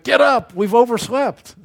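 loud, high shout of alarm; acting out an urgent holler; panicked wake-up call. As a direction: jolt someone out of bed, high and loud. Husband rousing wife in panic.

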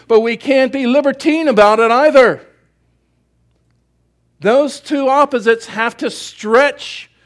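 loud, driving pulpit delivery; preaching at full force. Acted. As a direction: build it up like a revival sermon.

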